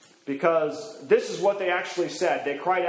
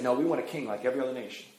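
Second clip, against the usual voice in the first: low, quick and quieter insistence of the people; stubborn people; 5 semitones lower, 5 dB quieter, much faster than usual. Retold or imitated. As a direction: rush out a stubborn demand. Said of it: "And they said".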